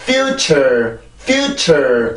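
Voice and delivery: "future" falling away on -ture; dropped second syllable. Shown as a demonstration. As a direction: mistaken "future", letting -ture drop with no stress. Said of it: "이렇게 뚝 떨어져 버리기 때문에".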